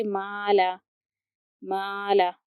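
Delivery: माला with a thin, light "ma"; light mim. Shown as a demonstration. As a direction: keep माला light, no mouth filling. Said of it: "देखिए कि ये बारीक होता है".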